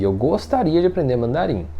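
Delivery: tentative "gostaria", lightly drawn; milder wish. Shown as a demonstration. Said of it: "é diferente você falar assim".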